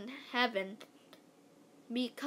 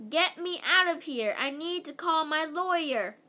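higher, louder demand; shouting; 5 semitones higher, 4 dB louder than usual. A narrator's reading. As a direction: shout up to be rescued. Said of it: "Missus Mentry shouted".

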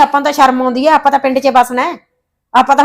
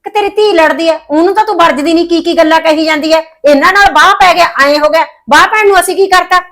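raised, heated protest; indignant quarrel; 3 semitones higher, 3 dB louder than usual. Acted. Mother snapping back at the in-laws, raised and heated. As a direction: fire back in a heated argument.

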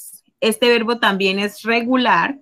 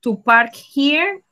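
drawn out word by word; teacher reading the exercise aloud; slow read of the prompt; much slower than usual. Shown as a demonstration. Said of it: "So here we have".

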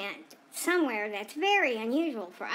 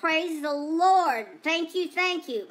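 louder, drawn-out mock hallelujah; acted relief; 4 semitones higher, 4 dB louder than usual. Owner and dog finally back in the car, played-up relief. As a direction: praise it out slowly, then higher thanks.

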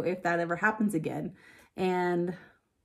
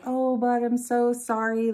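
louder, higher heartfelt sorry to her son; apologetic; 4 semitones higher, 4 dB louder than usual. Retold or imitated. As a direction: apologize to the kid, a bit upset. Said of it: "and I was like".

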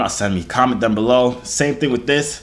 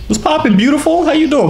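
flirty excited greeting; 13 semitones higher, 6 dB louder than usual. Acted. Flirty greeting on video chat.

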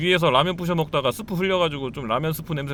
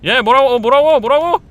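high, loud shouted questions; shouting to be heard over noise; shouting match; 8 semitones higher, 8 dB louder than usual. Pretend.

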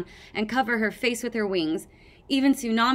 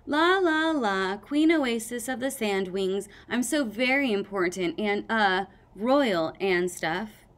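lightly voiced grand queen, sing-song start; a hint of a haughty queen; mock pompous queen. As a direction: act queenly and a bit unsure. Sunny playing a pompous queen.

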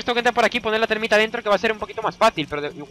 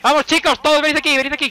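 calling out; 7 semitones higher, 4 dB louder than usual. Real, not acted. Calling teammates to the drill.

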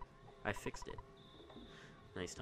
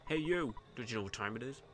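cop shouting; 3 dB louder than usual. Acted. Cop NPC calling out.

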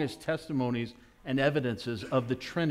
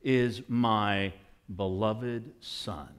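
very slow, solemn declaration; a slow, stately, lightly voiced Father; voice of God; 4 semitones lower, slower than usual. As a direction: proclaim it with grave authority. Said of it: "hear the voice of his Father say".

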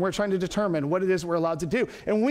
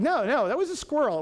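higher, insistent correction; retold reassurance; 4 semitones higher than usual. Speaker clears up confusion for an upset man, insistent. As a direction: set a misunderstanding straight. Acting out his hasty clarification.

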